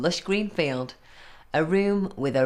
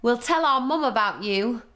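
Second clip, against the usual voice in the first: higher, louder defiant shout; shouting goats; 6 semitones higher, 4 dB louder than usual. Acted. Goats shouting at the troll, higher and louder. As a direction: yell it back at the troll. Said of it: "they shouted".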